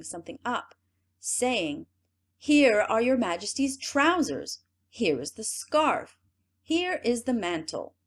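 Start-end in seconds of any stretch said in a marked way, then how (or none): 2.4-7.9 higher, louder salesman flourish; showy presenting. Acted. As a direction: sell the nothing with a flourish. Rogues presenting invisible clothes.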